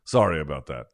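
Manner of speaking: offhand, muted imitation of an apology; casual apology. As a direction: imitate a dad casually excusing himself. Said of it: "is that casual".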